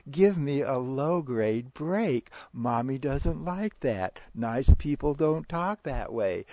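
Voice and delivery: high, loud, drawn-out parental scolding; mock parental griping, pushed high and loud; complaining parent. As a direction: exaggerate a parent's pained protest, slowly and loudly.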